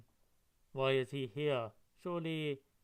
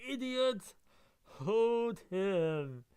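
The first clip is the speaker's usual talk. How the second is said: loud, high barked commands; shouted orders; 7 semitones higher, 6 dB louder, much slower than usual. Acted. Officer yelling at soldiers, loud high shout. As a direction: yell at the guards to grab him.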